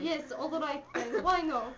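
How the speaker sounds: slow put-on Russian accent. Partner replying from a script, Russian accent. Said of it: "You do a Russian accent".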